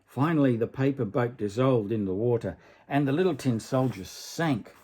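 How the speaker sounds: gentle storybook reading voice; story narration. A narrator's reading. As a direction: read it like a bedtime tale. Reads a fairy tale aloud.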